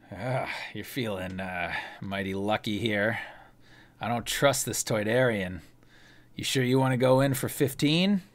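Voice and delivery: a hint of a wary card shark; Ander voice. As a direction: GM playing a distrustful gambler.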